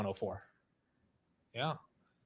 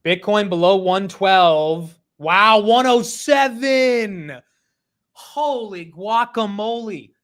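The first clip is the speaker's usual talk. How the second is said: slow, loud, amazed outburst; stunned surprise; 4 semitones higher, 6 dB louder, much slower than usual. Real, not acted. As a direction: gasp out the numbers in disbelief. Reacting live to the crash.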